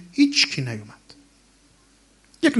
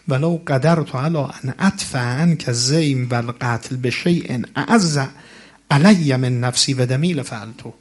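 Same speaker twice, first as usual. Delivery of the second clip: recitation. Acted. Recites Arabic ziyarat text.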